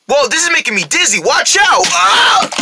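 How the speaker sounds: high, rising panicked cry; dizzy alarm. Acted. Rabbit spinning out of control, alarmed.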